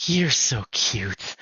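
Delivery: very slow and drawn out; a little crazy. Pretend. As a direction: linger on it a little madly. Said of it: "a little crazy hair".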